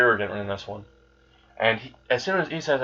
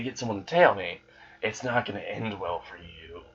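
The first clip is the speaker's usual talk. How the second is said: sinister. Acted. Issei warning those who would recruit him, mildly sinister. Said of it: "says this in the most sinister voice possible".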